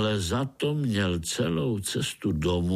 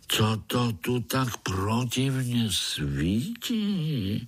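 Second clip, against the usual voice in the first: slow, fussy complaint; a hint of a cranky old spider; displeased old spider; 3 semitones higher, much slower than usual. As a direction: grumble at the bright light. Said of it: "začal se nespokojeně vrtět".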